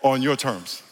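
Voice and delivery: slow, drawn-out Valley accent; Simi Valley accent. Shown as a demonstration. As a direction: stretch it out in mock Simi Valley speech. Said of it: "from, from Simi Valley".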